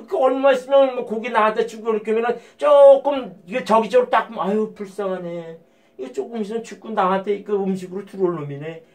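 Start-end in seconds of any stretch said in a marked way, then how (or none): 4.5-8.8 softer, mock pity muttered to oneself. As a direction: sigh it like pitying an animal. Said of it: "불쌍하다 그래요".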